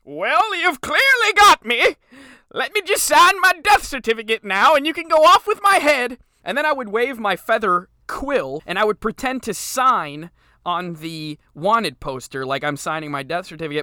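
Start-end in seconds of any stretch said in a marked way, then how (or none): 0.2-6.2 very high, loud, goofy, silly put-on voice. Speaker acts out pretending to sign their own death certificate, funny voice. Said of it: "So I would say in a funny voice".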